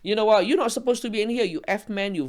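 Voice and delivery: mock scream, telling someone off; retold screaming. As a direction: re-enact an indignant outburst at moderate volume. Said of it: "I was screaming".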